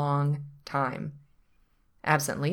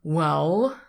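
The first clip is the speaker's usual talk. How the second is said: louder, long-suffering opener; 5 dB louder than usual. A narrator's reading. Attorney answers his hapless client, long-suffering. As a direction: begin as one whose patience is tried. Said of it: "with a long-suffering air".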